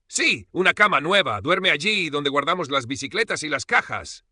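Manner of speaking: put-on high, loud, excited child; eager little girl. A narrator's reading. Granddaughter explains where grandmother sleeps, eager and innocent. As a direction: chirp it out innocently.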